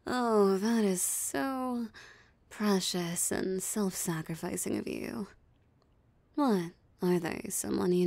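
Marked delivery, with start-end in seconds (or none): 0.1-5.3 mock admiration. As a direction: coo over the sacrifice sarcastically. Mocking the hunter's noble offer.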